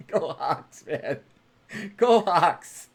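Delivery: loud team cheer. Real, not acted. Host cheering back at a viewer's sports greeting, loudly. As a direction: shout it like a fan in the stands.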